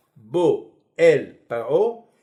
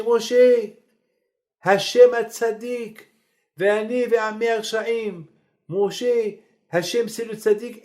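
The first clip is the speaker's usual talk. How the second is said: pleading Pharaoh; 6 semitones higher than usual. Acted. Pharaoh begging Moses for mercy.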